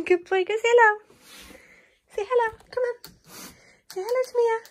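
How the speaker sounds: high, loud encouraging coo; sing-song come on; high coaxing. Real, not acted. Urging dog to greet baby.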